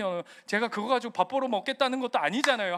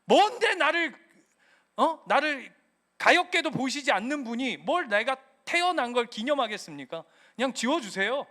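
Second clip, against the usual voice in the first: tantrum prayer; 3 semitones higher than usual. Retold or imitated. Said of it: "땡깡 피우냐면".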